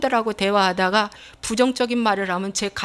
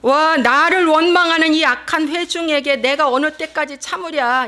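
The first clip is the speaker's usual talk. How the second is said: indignant divine rebuke, higher at first; God; 5 semitones higher, 4 dB louder than usual. Acted. God rebuking the people who grumble against Him, exasperated outburst. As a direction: thunder at the grumbling congregation, acted out. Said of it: "이제 하나님 말씀하신".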